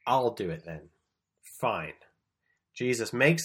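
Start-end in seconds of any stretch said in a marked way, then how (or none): 0.1-1.9 lower-pitched, annoyed resolve; mad. Acted. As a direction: take it on in exasperation. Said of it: "Jesus is mad at the temple".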